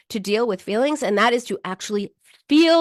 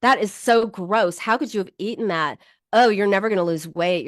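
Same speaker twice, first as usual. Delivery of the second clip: harsh self-scolding. Shown as a demonstration. Coach showing cruel self-talk, harsh scolding. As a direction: tear into yourself with disgust. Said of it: "would you say to your friend".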